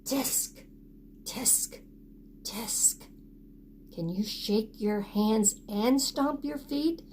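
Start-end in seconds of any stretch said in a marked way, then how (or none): 0.0-3.0 soft tutting tisk; monkeys tutting. Acted. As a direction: cluck it back quietly like teasing monkeys.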